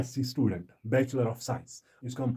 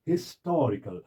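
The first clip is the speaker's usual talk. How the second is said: "हिस्टोरिकल" stressed on the TOR; second-syllable stress. Shown as a demonstration. Teacher demonstrating stress, "हिस्टोरिकल" with weight on TOR. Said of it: "दूसरा syllable जो है".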